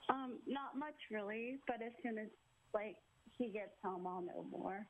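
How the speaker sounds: tearful, holding back sobs; been crying. Real, not acted. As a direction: voice heavy from crying. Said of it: "you sound like you've been crying".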